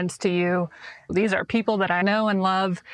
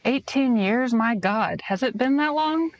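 surprised disbelief; 4 semitones higher than usual. Real, not acted. Host amazed at eighteen years.

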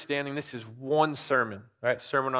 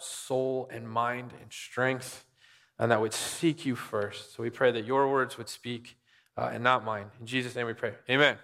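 prayer. Acted. Pastor leading the church in prayer, hushed and earnest. Pastor prays before sermon.

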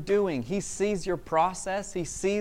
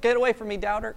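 mock yell; 5 semitones higher, faster than usual. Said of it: "ran away yelling".

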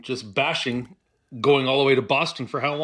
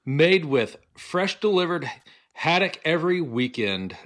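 reading ad copy. Acted. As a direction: savor each line like a promo read. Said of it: "and I'll read it just for you".

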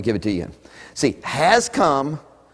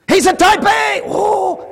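high, loud star-struck cry; hammed-up awe; gushing admirer; 5 dB louder, slower than usual. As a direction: gush over the rich visitor. Mocking church admiration.

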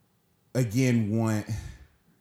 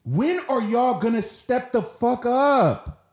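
real upset; 7 semitones higher, 3 dB louder than usual. Real, not acted. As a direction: demand they act, truly fed up. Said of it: "I'm getting so upset".

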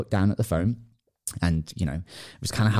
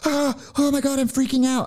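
very high, squeaky mock panic; Russell Brunson. Imitating his constant freak-outs, squeaky mock panic. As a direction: impersonate a freak-out in a tiny high voice. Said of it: "if you guys know Russell Brunson".

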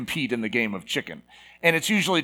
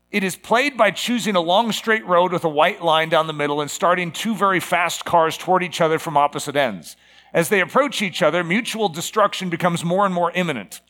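slightly raised, measured reading voice; reading a quotation; 2 semitones higher than usual. Acted. Preacher quoting Bertrand Russell on chicken, reading aloud. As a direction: read it out as a formal quote.

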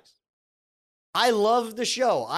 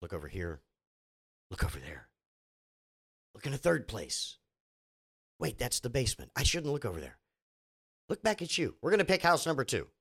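much lower, softer, droning mock TV client; mock house hunter; 6 semitones lower, 5 dB quieter than usual. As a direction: drone it out low like a bored house hunter. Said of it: "which one are you gonna pick".

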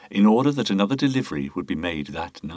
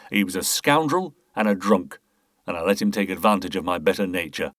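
Boothby, defensive confession. Acted. Market boss justifying himself to the inspector, defensive. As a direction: push back as a wronged charitable man.

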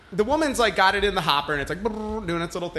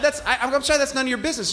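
retold indignant reply; 6 semitones higher, faster than usual. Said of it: "And I go".

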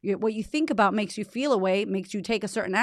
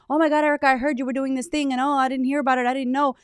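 higher, louder mock dismay; imitating a regretful listener; 6 semitones higher, 3 dB louder, faster than usual. Host voicing a fan who missed the offer, high mock dismay.

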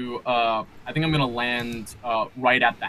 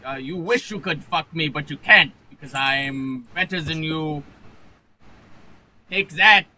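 high-pitched, halting haughty taunt; indignant drunken captain; 5 semitones higher, 6 dB louder than usual. Acted. Drunk captain sneering back at shouting crowd, high indignant taunt.

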